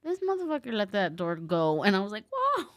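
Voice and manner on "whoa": high-pitched startled whoa. Retold or imitated. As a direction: yelp of surprise. Reacting to door slammed.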